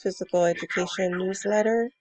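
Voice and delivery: hoarse sick voice. Real, not acted. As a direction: talk through a sore, raspy throat. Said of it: "excuse my voice, I'm currently sick".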